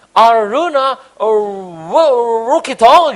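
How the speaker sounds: put-on high, loud struggling Western accent on the name; foreign accent. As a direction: stumble over the name like a bule. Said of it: "Ngomong nama saya paling susah". (menyebut nama dengan logat bule, tinggi dan keras)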